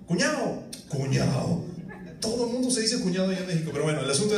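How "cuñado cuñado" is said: higher, sing-song call across the street. Retold or imitated. Man in Mexico greeting passers-by, higher sing-song call. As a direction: hail a passer-by Mexican style. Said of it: "usted va a caminar y".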